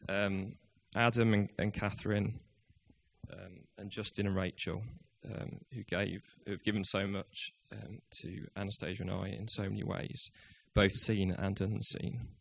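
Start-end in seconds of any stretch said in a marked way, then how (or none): 3.3-12.3 soft, halting, fighting real emotion; holding back tears. Real, not acted. Leaving youth worker thanks friends at church, holding back tears. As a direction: thank them softly while trying not to cry. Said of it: "pull yourself together".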